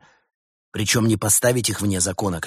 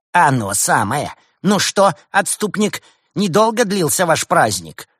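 gloating rival; 8 semitones higher, 6 dB louder than usual. A narrator's reading.

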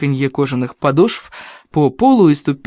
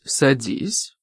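curt command; 6 dB quieter than usual. Acted. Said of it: "скомандовала она".

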